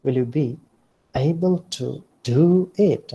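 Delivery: "be" stressed, gentler up-down swoop; mild mocking doubt. Shown as a demonstration. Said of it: "Like this".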